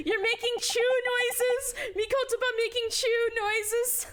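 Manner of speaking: high, laughing exclamation; real amused glee. Real, not acted. Player cracking up at the character's silly squeaks, high and giggly. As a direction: crow it out through real laughter.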